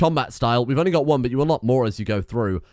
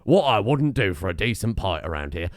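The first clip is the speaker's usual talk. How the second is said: imitated Cockney lad, slightly lower; Cockney accent; 3 semitones lower than usual. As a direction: echo the line in a Cockney accent. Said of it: "Cockney white boy".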